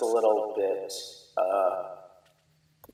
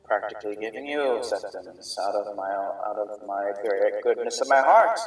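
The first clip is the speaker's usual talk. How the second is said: lightly voiced smooth merchant, a touch higher; slightly raised merchant voice; merchant NPC; 5 semitones higher than usual. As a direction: play the scheming merchant, lightly.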